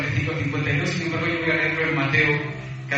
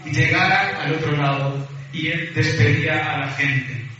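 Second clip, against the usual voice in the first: scripture reading. Acted. Reads the Bible passage aloud.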